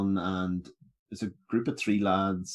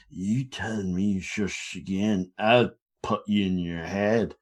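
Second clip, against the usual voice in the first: put-on slurred drunk threat; slower than usual. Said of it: "drunkenly turned around".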